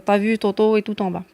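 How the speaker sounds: "Toto" and "tout" with a hard, dark emphatic T; exaggerated emphatic T. Shown as a demonstration. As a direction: lean on the T in "T'as vu Toto". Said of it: "quand tu vas te taper la honte comme moi".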